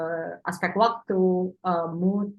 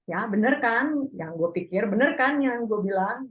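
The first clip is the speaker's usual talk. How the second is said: I told you so; 3 semitones higher than usual. Shown as a demonstration. Teacher demonstrating smug "bener kan". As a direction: rub in that you were right. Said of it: "kita mau bilang".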